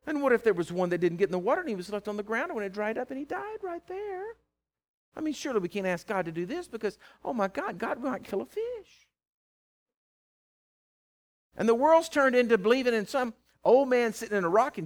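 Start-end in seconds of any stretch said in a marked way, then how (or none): 0.1-9.1 politically correct objector. Acted. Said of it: "that may not be politically correct".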